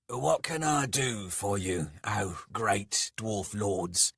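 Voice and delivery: lightly voiced servant, slowing on the grand title; servile. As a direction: offer yourself to your masters. Skalg offers service to the lords.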